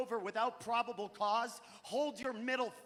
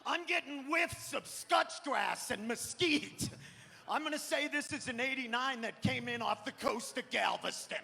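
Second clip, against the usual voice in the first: mock wine sommelier. Gas-huffing teen judging gasoline, hammed-up sommelier voice. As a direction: savor it like a snooty sommelier. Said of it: "and be like".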